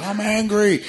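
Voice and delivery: high-pitched mock outburst; mock Hulk rage. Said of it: "he doesn't Bruce Banner it".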